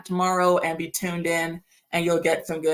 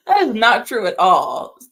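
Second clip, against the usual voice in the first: indignant outburst; 2 semitones higher, 7 dB louder than usual. Real, not acted. Outraged at viewer's birth claim.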